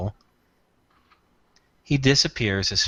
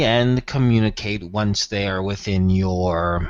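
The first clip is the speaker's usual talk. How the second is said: Tyrath voice; 3 semitones lower than usual. Acted. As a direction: speak down to them, coldly measured.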